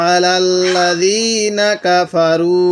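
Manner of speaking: আলাল্লাযীনা কাফারু drawn very slowly; slow recitation. Shown as a demonstration. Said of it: "কীভাবে পড়ব". (ধীর তিলাওয়াত)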